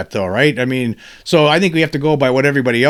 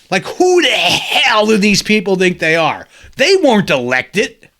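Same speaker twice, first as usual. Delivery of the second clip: exasperated shout; angry; 3 semitones higher than usual. Real, not acted. The host fuming at the officials, angry shout. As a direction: throw the question out in anger. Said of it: "I am angry when I think about it".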